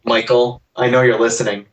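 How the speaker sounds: put-on a light Irish accent, calling out; lightly put-on Irish accent addressing Michael. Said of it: "you asked him in an Irish accent".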